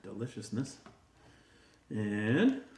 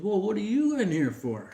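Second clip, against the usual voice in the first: much higher, breezy greeting; cocky Great Dane; 9 semitones higher, 4 dB louder than usual. Acted. Great Dane greets the other dogs, in a much higher breezy voice. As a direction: stroll in like you own the place.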